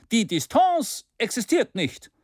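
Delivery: Distance pitched high and pushed out; mild mock cry; energetic cry. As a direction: outdo the others in zeal. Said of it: "rief Maston energischer als die anderen".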